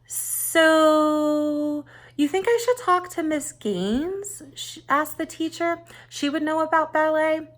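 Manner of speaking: a schoolgirl asking about ballet; Teresa's voice. A narrator's reading. Teresa asks her teacher, light and high.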